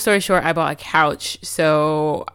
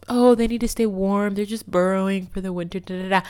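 mocking excuses. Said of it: "made excuses for the squirrels".

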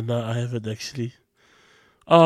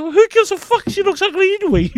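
loud, high-pitched scornful outburst; hammed-up exasperated punchline; mock outburst; 10 dB louder than usual. Retelling boss's scornful punchline amid laughter.

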